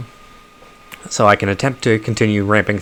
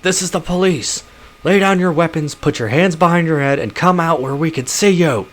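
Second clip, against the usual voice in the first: loudspeaker voice; 9 semitones higher than usual. Acted. Police calling the runners out, over a loudspeaker. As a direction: bark orders over a loudspeaker. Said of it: "A voice blares out from a loudspeaker".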